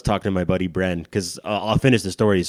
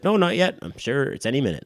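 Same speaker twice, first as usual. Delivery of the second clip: mom's reply; 7 semitones higher than usual. Retold or imitated.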